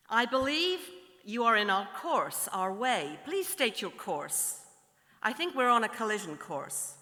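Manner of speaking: American captain, lightly voiced; a hint of American in a formal radio call; slight American accent. American captain asking a vessel its course, slight American accent. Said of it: "do a slight American accent".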